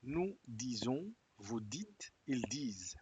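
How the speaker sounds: slow, careful "Nous disons", silent final s on "disent"; model pronunciation. Shown as a demonstration. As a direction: say each form clearly, slowly. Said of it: "Très bien". (pronunciación modelo, lenta y clara)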